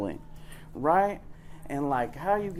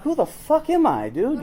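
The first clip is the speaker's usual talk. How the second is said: much higher, loud exasperated cry; exasperated outburst; 9 semitones higher, 4 dB louder than usual. Retold or imitated. Asked over and over who he is, exasperated cry. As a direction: throw up your hands in frustration.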